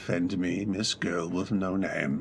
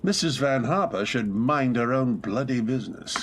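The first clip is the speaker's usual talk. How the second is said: outburst; 2 semitones higher, 3 dB louder than usual. Acted. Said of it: "forgive my outburst".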